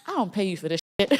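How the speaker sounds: quick, laughing mock protest; laughing retort. Client laughs back at her therapist's challenge.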